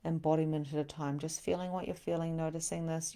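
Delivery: soft, hushed meditation voice; guided meditation. Acted. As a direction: gently guide them one step at a time. Leads a slow grounding meditation.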